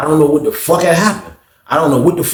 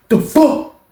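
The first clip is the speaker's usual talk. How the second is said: incredulous; 13 semitones higher than usual. Retold or imitated. Mock outrage.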